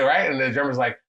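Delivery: normal talking voice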